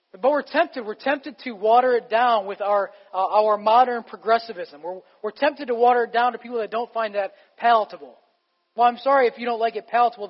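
building sermon intensity; preaching harder. Real, not acted. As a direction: lean into it like a warning from the pulpit. Preaching louder against watering down.

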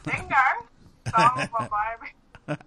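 hammed-up Aboriginal Australian accusation; mock Aboriginal accent. Shown as a demonstration. Girlfriend joking about dingo and baby, mock Aboriginal accent. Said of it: "speak to them in Aboriginal".

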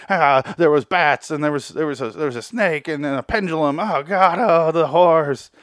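high, loud, wailing mock panic; hammed-up freak-out. Uncle Harry freaking out after the house of horrors, mock hysteria. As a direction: wail it out, drawing out the horrors. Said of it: "And he freaks out".

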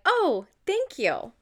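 awkward simple thanks. Retold or imitated. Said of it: "For me to be like".

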